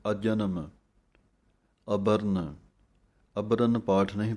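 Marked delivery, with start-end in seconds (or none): 0.1-0.7 ਅਜਨਮ with ਅ joined straight onto ਜਨਮ; correct pronunciation. Shown as a demonstration. Teacher models ਅਜਨਮ for students, ਅ joined onto ਜਨਮ. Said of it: "ਸਾਹਮਣੇ ਐੜਾ ਲੱਗਿਆ ਹੋਇਆ ਹੈ".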